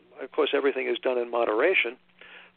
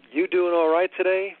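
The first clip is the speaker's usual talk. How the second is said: friendly Southern greeting; 5 semitones higher, 5 dB louder than usual. Retold or imitated. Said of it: "something that you hear all the time".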